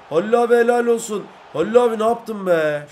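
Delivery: loud, high cheer for a teammate; excited praise. Pretend. Player cheering teammate Halil after his play, excited. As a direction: shout your joy at his great play.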